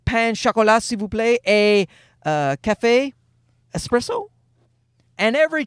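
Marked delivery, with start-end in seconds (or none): 0.1-4.3 put-on trying hard at a French accent, pitched up; careful, hopeful order in tourist French accent; imitating own best French accent, questioning at the end. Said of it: "in my best French accent".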